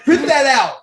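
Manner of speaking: loud, high, through a laugh; laughing repeat. Retold or imitated. Retelling to the friends, a laughing loud repeat. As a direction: say it again while cracking up.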